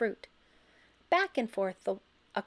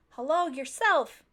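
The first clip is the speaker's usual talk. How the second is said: croak; 6 semitones higher, 4 dB louder than usual. A narrator's reading. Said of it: "she croaked".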